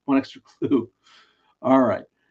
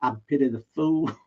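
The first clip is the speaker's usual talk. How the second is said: put-on half-hearted Southern accent; 4 semitones higher, faster than usual. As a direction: attempt a Southern accent, not quite landing it. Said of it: "he said it in a Southern accent".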